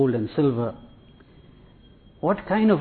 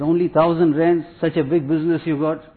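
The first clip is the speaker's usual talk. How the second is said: higher, louder mock indignation; indignant disbelief; 4 semitones higher, 4 dB louder than usual. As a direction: act affronted at a small donation. Greedy shaykh scorns the donation.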